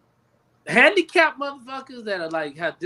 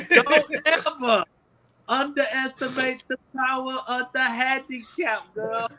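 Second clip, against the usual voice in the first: slow stern warning; slower than usual. Acted. Stern warning repeated slowly.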